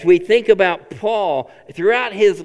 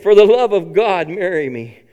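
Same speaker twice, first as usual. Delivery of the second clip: mock begging; 4 dB louder than usual. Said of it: "I begged".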